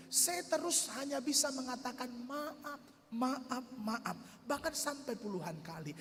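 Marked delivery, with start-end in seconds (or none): 2.3-4.2 fearful apologies. Retold or imitated. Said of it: "Dalam keadaan takut".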